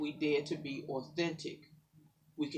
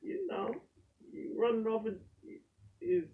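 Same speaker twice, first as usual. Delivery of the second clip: much higher mock jab at the pastor; mock churchgoer; 7 semitones higher than usual. Church member calling out the pastor, mockingly. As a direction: tease it like a let-down member. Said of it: "look in the church and like".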